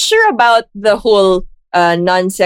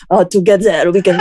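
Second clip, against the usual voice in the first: mock French accent; 3 semitones lower than usual. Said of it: "He's French now".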